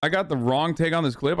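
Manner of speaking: incredulous rising question. Real, not acted. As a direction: repeat it back in disbelief. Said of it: "Wait, what?".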